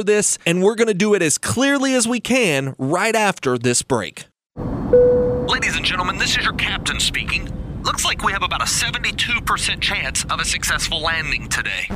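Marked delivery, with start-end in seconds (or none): 4.6-11.9 captain over the cabin PA; tinny airline captain announcement; pilot cockpit headset. Acted.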